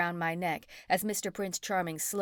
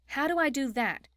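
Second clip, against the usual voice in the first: alarmed; 7 semitones higher than usual. A narrator's reading. June alarmed.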